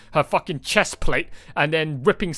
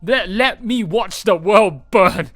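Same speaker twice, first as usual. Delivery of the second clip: higher, louder, pleading villain whine; mock villain plea; 5 semitones higher, 3 dB louder than usual. Streamer mocking Kirei's reasoning to Shiro, higher pleading whine. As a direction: ham up Kirei begging to watch the world burn. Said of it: "Kirei's fucking reasonings. Like".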